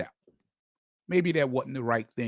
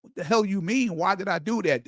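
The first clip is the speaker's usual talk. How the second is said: puzzled disbelief; 5 semitones higher than usual. Retold or imitated. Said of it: "puzzled 'cause I'm like".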